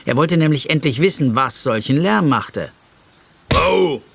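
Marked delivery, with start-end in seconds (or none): 3.6-4.0 sharp, loud, high yelp; a sudden hurt yelp; cry of pain. Acted. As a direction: bear yelps as the stick hits his foot. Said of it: "rief etwas".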